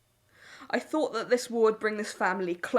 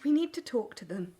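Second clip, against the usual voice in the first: hushed whisper. Acted. Mother whispers to daughter.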